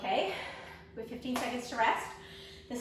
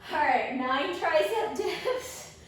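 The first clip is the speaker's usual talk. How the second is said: straining. Real, not acted. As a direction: push the words out through the strain. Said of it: "my arms are shaking".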